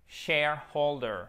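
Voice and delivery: "Shareholder" slowly with an audible H in holder; H prononcé. Shown as a demonstration. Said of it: "On n'oublie pas le H". (« Shareholder » lent, avec le H bien soufflé)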